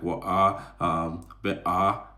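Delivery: lightly put-on, over-careful British English; mock careful British accent, halting and drawn out. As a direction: imitate a cautious British work voice. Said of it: "you start being too careful".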